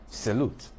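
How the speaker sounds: "salute" with a schwa, then stressed LUTE; weak first syllable in "salute", stress the second. Shown as a demonstration. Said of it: "the stress is on the second syllable".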